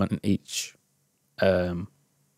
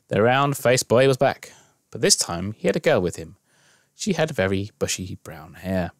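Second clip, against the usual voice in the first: measured storytelling read; story narration. A narrator's reading. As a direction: read it as an unfolding story, with pauses. Reads interactive story aloud.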